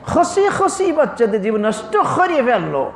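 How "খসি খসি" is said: খসি খসি with a breathy kh in place of k. Shown as a demonstration. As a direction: say খসি with a strong aspirated kh, Sylheti style. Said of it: "সব খ".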